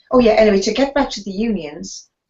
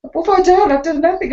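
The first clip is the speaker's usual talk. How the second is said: retold indignant surprise; 10 semitones higher, 4 dB louder than usual. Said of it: "And I said".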